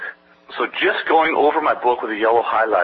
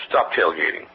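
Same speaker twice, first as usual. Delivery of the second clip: a lower, firmer "Stop tailgating"; firmer repeated warning; 8 semitones lower than usual. Retold or imitated. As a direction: drop the pitch and insist on "Stop tailgating". Repeating the warning more firmly.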